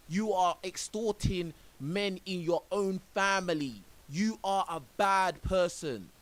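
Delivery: indignant scolding of a stranger; heated rant. Real, not acted. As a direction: let him have it, slowly and loud. Ranting at the woman in clip.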